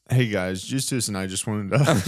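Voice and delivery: outro take that breaks into laughter; giggling partway through the sign-off; laughing through it. Real, not acted. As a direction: try the line, crack up at the end.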